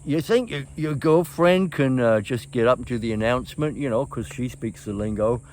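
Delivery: put-on Cockney accent. Tour manager asks if the girlfriend can announce, mild Cockney accent. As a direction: put on a gentle East End London accent to voice the tour manager. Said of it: "East End of London Cockney kind of accent".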